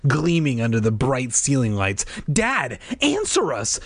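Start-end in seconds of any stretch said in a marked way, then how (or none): 2.3-3.8 slow, high-pitched demand; urgent, drawn-out appeal. A narrator's reading. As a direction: demand an answer, stretching the words. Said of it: "Margaret demanded".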